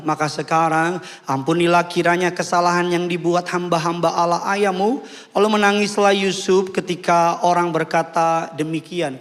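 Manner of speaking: strong, even public Bible reading; measured declamatory recitation; scripture reading. Acted. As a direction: read the verse out to the congregation. Reads scripture aloud.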